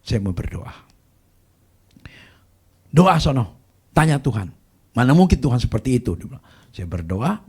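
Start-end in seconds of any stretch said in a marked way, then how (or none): 2.9-6.2 retold scolding. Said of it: "dimaki-maki saya sama cici saya".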